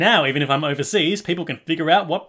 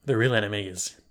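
dramatic whisper; 5 semitones lower, 6 dB quieter than usual. Acted. Dramatic reveal.

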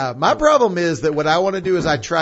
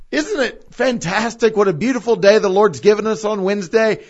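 ad-libbed cheer; 5 semitones higher, 4 dB louder than usual. Shown as a demonstration. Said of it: "well, I'll say".

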